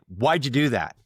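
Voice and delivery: a touch of angry accusation; mildly mad, demanding; sharp, upset question. Shown as a demonstration. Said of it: "I use a tone that your listeners probably go, that dude's mad".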